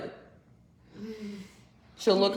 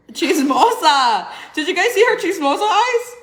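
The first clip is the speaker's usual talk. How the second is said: laughing tease; 10 semitones higher, 8 dB louder than usual. Real, not acted. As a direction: drag it out laughing. Teasing nosy baby.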